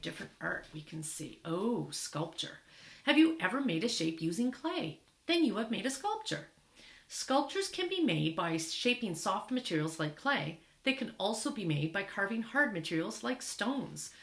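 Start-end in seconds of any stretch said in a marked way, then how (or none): 3.0-14.1 lively read-aloud, questions lifted higher; reading to children. Acted. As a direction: read an information book out to young listeners. Reads book aloud to children.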